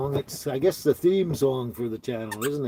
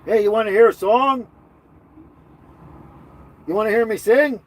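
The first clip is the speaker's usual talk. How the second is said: excited offer; 10 semitones higher, 8 dB louder than usual. Real, not acted. Playful high offer to sing.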